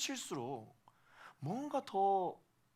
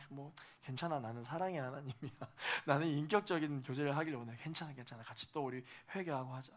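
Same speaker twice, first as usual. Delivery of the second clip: hushed, gentle comfort; God forgiving tenderly, quiet and kind; soft reassuring God; 2 semitones lower, 4 dB quieter than usual. Acted. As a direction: soothe a guilty child softly.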